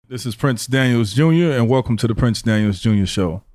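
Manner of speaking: upbeat live anchor intro; newscaster voice. Acted. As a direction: greet viewers like a TV anchor. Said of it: "Is that your newscaster voice?".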